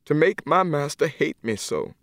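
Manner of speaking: grieving question to God; tearful plea. Acted. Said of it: "she cried".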